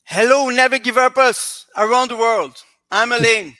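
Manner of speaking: loud, high, hearty hail; rousing greeting. Real, not acted. Guest greets worldwide listeners, rousing greeting. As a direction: hail the whole world at full volume.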